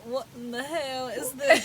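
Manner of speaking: put-on slow, wobbly British accent; mock British accent. Co-host voicing British friends' reaction, shaky mock British. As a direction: imitate a baffled Brit, badly. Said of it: "All my British friends are probably".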